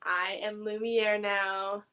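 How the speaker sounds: put-on slow, light French accent as Lumiere. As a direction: lightly slip into a French accent to claim the role. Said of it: "Are you doing a French accent?".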